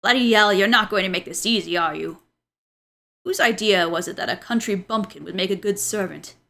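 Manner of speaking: lightly voiced old man scolding. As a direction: give a hint of a stern old master. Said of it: "should I do an old man voice?".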